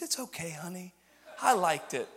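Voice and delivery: quiet imitation of a forgiving grandma; lightly voiced, hushed grandma; soft reassurance. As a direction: gently let him off the hook. Grandma reassures him in retold exchange.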